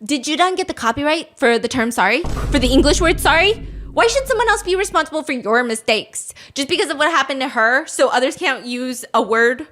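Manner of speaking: acting out an online uproar, loudly; outraged netizens. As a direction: fire off indignant rhetorical questions. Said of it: "netizens start going crazy".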